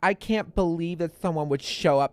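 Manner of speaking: put-on breezy, spoiled Valley Girl. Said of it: "Pretty good Valley Girl voice".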